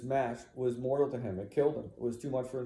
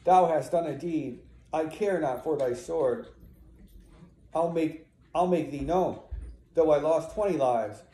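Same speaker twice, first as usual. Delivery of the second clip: raised, louder defiant declamation; defiant accusation; 4 semitones higher, 5 dB louder than usual. Acted. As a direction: stand up to the killer. Acted defiance of a killer.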